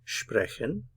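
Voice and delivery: sprechen with SHPRE stressed, rising; German word. Shown as a demonstration. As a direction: sprechen said as SHPRE-khen, first syllable hit. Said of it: "Stress on the first syllable".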